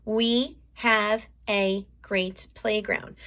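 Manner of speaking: slow, careful sentence read; teacher rehearsing a sentence slowly; slow repeated sentence. Shown as a demonstration. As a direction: say it slowly to remember it. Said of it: "keep saying my sentence".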